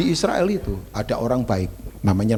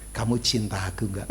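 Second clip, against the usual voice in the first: coaxing wife; 2 semitones lower, 4 dB quieter than usual. Retold or imitated. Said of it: "kalau sedang ngomong begitu".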